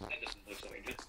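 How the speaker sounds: dry whispered aside; whispering. Real, not acted. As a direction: whisper it under your breath. Dry remark on ancient village.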